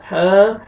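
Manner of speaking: हा with the a drawn out; हा held long. Shown as a demonstration. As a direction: stretch हा long. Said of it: "हा को आपने खींचना है".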